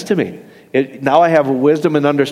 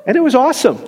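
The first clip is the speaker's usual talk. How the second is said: a burst of real excitement; excited; 10 semitones higher, faster than usual. Real, not acted. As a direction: pitch jumps way up in delight. Preacher marvels at wrestlers' joy.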